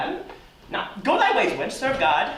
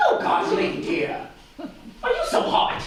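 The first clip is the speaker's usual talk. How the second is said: mock outrage; 14 semitones higher than usual. Nurse mock-outraged at Juliet.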